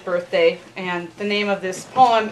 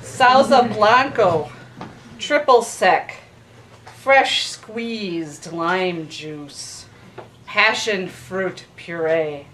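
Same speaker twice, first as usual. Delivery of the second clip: poetry reading; 4 semitones lower, slower than usual. Acted. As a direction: linger on each ingredient. Waiter's drink list within the poem.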